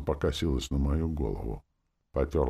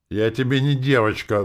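higher, louder indignant cry; flaring up; 9 semitones higher, 8 dB louder than usual. A narrator's reading. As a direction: flare up, offended. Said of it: "взвилась девчонка". (возмущённо вскипев, громче и выше)

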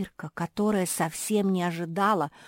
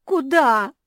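high, loud whiny wail; whimpering; 9 semitones higher, 12 dB louder than usual. A narrator's reading. Kuki asks where to hide, whimpering. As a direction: whimper like a scared puppy. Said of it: "захныкала Куки".

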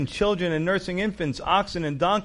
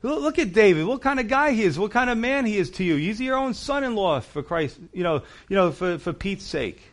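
higher, fast, exasperated retort; bold indignation; 4 semitones higher than usual. Retold or imitated. Preacher voicing Ahimelech rebuking Saul, bold and exasperated. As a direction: push back hard at the king. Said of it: "Look at the boldness of Ahimelech".

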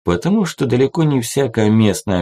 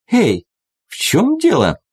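high-pitched indignant outcry; 13 semitones higher, 3 dB louder than usual. A narrator's reading. Soloist protests after nearly falling over a leg, indignant. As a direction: protest sharply at being tripped up. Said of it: "возмутилась она".

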